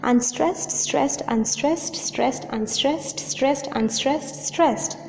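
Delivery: even, rhythmic chant of "unstressed, stressed"; iambic beat. Shown as a demonstration. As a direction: tap out "unstressed, stressed" in steady pairs. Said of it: "That is in iambic tetrameter".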